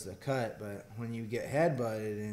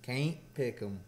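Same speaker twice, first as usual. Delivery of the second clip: "Can't" with a Southern drawled a; southern accent. Shown as a demonstration. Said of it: "You teach me a southern accent".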